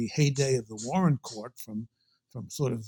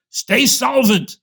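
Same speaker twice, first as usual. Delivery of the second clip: slow, drawn-out, high warning with a twinkle; teasing the young director about money, slow high wag-finger warning; mock stern old mentor; 11 semitones higher, 9 dB louder, slower than usual. Old board chief ribbing his successor over the budget, slow and high.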